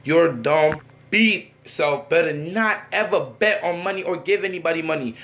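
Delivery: slow mock-scolding mom; retold stern lecture, drawn out; mad. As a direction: deliver a measured parental telling-off. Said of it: "My O G was mad".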